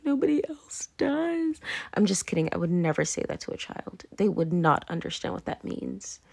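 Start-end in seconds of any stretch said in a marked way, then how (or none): 0.0-1.6 slow, secretive whispered aside; hushed, slow and conspiratorial; mock whisper. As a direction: lean in and whisper it like a shared secret. Acted quote to kids, conspiratorial.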